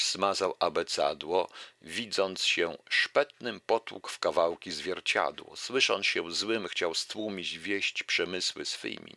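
lively recital of a verse fable; fable reading. Acted. Lecturer reciting a fable to the audience, lively recital. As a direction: read the fable out to the audience with relish.

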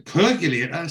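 put-on mildly posh Geordie accent, rising questioningly; a Geordie trying to speak posh. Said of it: "he's trying to speak posh".

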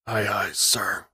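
barely dragging the words out after days in the chair; weak aye aye sir. Acted. He's too weak.

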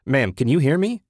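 loud rising call. A narrator's reading. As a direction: check if she can hear, through glass. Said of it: "a voice shouted".

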